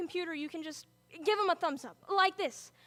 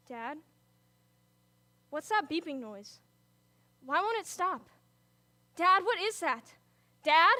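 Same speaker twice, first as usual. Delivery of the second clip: growing alarm. Acted. Father's machine starts beeping.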